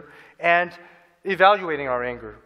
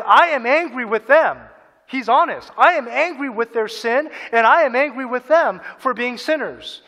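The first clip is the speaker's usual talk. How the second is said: loud, raised voicing of an angry Jesus; 5 semitones higher, 6 dB louder than usual. Preacher voicing Jesus to the congregation, loud and angry. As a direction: declare the anger firmly and loud.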